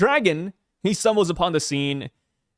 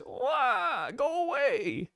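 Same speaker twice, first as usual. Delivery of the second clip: put-on high, soft child voice; whining little kid; 9 semitones higher, 8 dB quieter, much slower than usual. Kid in a tree to Summers, high soft whine. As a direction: wail it like a scared kid up a tree.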